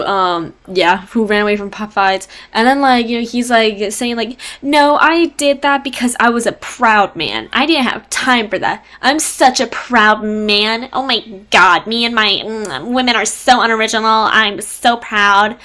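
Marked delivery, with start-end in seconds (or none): 4.6-15.6 drawn-out, self-important mock protest; imitating a defensive braggart; mock boasting. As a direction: boast like a proud man, hammed-up. Acted boast of proud narrator.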